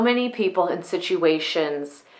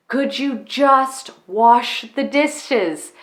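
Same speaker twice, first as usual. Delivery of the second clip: exasperated request; 4 semitones higher, much slower than usual. Retold or imitated. Voices a fed-up spouse's repeated request.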